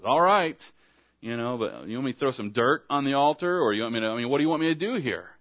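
mock-exasperated pleading for instructions; hammed-up bewildered protest; exasperated confusion. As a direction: act at a loss, pitch jumping up. Acting an exasperated priest seeking instructions.

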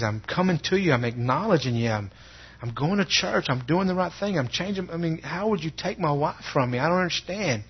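reenacted protest to God, pitch climbing; mad and confused. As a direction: plead your case in hurt confusion. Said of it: "mad, confused. I said".

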